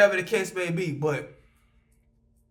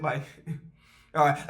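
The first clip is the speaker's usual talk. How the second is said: imitating a rapper's laugh; 7 semitones lower, 4 dB quieter than usual. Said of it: "doing my little rapper laugh".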